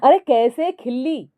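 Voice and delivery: loud exasperated shout; husband shouting back at his wife. A narrator's reading. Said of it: "Rahul भी चिल्ला कर बोलता है".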